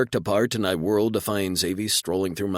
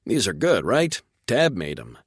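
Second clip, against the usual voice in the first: bright upbeat question, pitch jumping; chirpy and pleased with himself; cheerful; 3 semitones higher, 4 dB louder than usual. Acted. Xavier cheerfully praising eggs.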